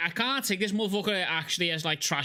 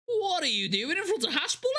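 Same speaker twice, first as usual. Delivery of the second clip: incredulous; 8 semitones higher than usual. Real, not acted. Shocked reaction.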